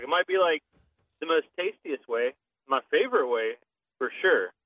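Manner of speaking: real Southern twang, arguing the point; strong Southern accent. Real, not acted. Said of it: "your Southern accent came out really strong".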